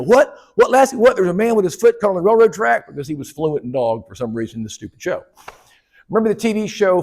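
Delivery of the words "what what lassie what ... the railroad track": put-on high, eager kid voice asking what; a dumb kid puzzling out his dog; Timmy. Comedian playing Timmy answering Lassie's bark, high and eager. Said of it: "Timmy would go".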